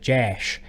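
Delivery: "Jash" said with a front A, as in "cash"; flat-A pronunciation. Retold or imitated. Quoting Ohio family teasing the accent, "Jash" with a front A. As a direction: make "Jash" rhyme with "ash". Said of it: "That's how you guys say it".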